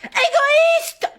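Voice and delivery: very high crying shout; dramatic shout. Acted. Teacher dictating, screaming the word with a sob. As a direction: scream it like a heartbroken diva. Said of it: "ça va pas de crier comme ça".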